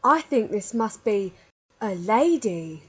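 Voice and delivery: mildly frightened, slowing on the last words; dawning dread in a character voice; scared voice. A narrator's reading. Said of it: "he said in a scared voice".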